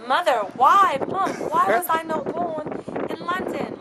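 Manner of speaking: high, hammed-up English accent. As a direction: plead in a put-on London accent. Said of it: "I love speaking with the accent".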